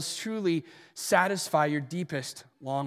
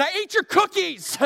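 comic confession; 12 semitones higher, 4 dB louder than usual. Retold or imitated.

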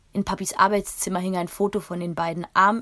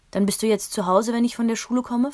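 put-on child's voice; 5 semitones higher, 7 dB louder than usual. Kind fragt hoffnungsvoll.

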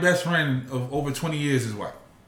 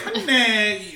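higher-pitched put-on Asian accent; mock Asian accent; 7 semitones higher than usual. Jokingly showing cohosts the word, mock Asian accent. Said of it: "that's a Asian person".

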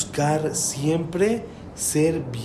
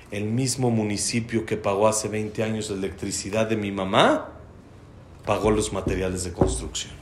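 con toda calma; 2 semitones lower, 3 dB quieter than usual. Retold or imitated. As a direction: answer softly and evenly, entirely unruffled. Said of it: "le dice Itzik con toda calma". (respuesta tranquila y serena)

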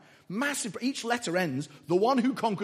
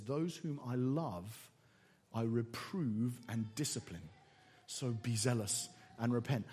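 softer, lower and slow, tender; tender verse reading; 7 semitones lower, 7 dB quieter than usual. Shown as a demonstration. Jesus' words to the church, read softer and slow. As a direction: lower your voice and give it gently, with love. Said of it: "And then he says".

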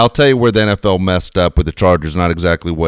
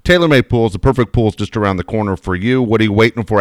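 ad read; 2 semitones higher than usual. Acted. Host reading the TaylorMade Pools ad, upbeat pitch. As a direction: pitch the pool company to listeners.

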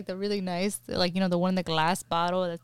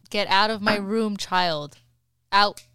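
firm, louder final word; stern parental order; 2 semitones lower, 4 dB louder than usual. Real, not acted. Mother sending child out of her room, stern order.

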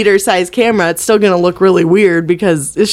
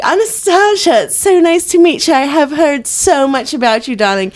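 much higher, hammed-up mid-Atlantic accent; 9 semitones higher than usual. Rich mother greeting her son's new girlfriend, hammed-up mid-Atlantic accent. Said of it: "a mid-Atlantic accent".

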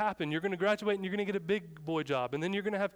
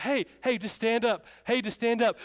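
raised, higher-pitched urgent call; yelling; 5 semitones higher, 4 dB louder than usual. Retold or imitated. Youth pastor to panicking girl in the river, yelling. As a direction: call out insistently, building toward a shout. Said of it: "Yelling. I'm like".

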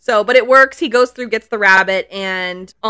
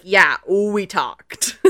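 put-on creepy kid; much slower than usual. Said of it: "And he's like".

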